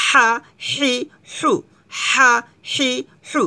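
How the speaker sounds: হা হি হু pressed from the throat. Shown as a demonstration. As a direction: tight throaty হা হি হু. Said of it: "চাপ দিতে হবে".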